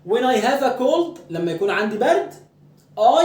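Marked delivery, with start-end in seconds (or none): 0.1-1.2 very slow, rising at the end on cold; slow dictation. Shown as a demonstration. Teacher dictating to students, slow with a rise on cold. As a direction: dictate it word by word for the class to copy. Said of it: "اكتب عندك في الكتاب كده".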